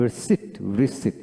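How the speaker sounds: "রিসিট" slowly, ending in "seet" with no p; careful ri-seet. Shown as a demonstration. Teacher models "রিসিট" carefully for learners, p left silent. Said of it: "এইভাবে উচ্চারণটা খেয়াল করে পড়বেন".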